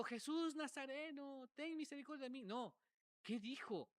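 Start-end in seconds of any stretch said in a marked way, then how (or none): 0.0-2.4 retold cry. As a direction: imitate a beggar crying out, held back in volume. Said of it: "Él no le gritó".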